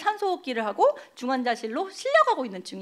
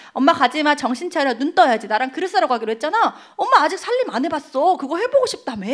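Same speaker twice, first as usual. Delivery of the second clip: louder, urgent begging to wake up; pleading with mother; 4 semitones higher, 4 dB louder than usual. Retold or imitated. Daughter at mother's bedside begging her to wake, loud pleading. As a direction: call her back, loud and desperate.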